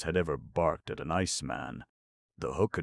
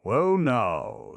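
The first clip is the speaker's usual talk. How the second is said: high drawn-out clown; a cheery clown musing; 9 semitones higher, 7 dB louder than usual. A narrator's reading. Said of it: "said the clown".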